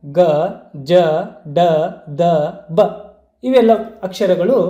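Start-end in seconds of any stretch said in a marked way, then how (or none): 0.1-2.8 ಗ, ಜ, ಡ, ದ, ಬ voiced with little breath; letter by letter, ಗ, ಜ, ಡ, ದ, ಬ unaspirated, with pauses between; unaspirated consonants. Shown as a demonstration. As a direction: keep ಗ, ಜ, ಡ, ದ, ಬ free of any puff. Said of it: "ಕಡಿಮೆ ಉಸಿರಿನಿಂದ ಉಚ್ಚರಿಸಲ್ಪಡುವಂತಹ".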